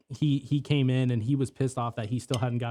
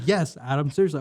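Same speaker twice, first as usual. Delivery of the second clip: high loud heated retort; yelling; 3 semitones higher, 4 dB louder than usual. Retold or imitated. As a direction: shout back at him. Excited yelling back.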